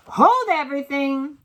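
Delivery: loud, high commanding cry; shrieking. A narrator's reading. Witch halting the assembly with a shrieking cry. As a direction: stop everyone dead with it. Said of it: "her shrieking voice echoed".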